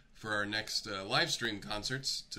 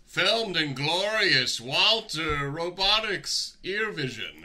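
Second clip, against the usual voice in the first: movie trailer announcer; 8 semitones higher, 12 dB louder, much slower than usual. Pretend.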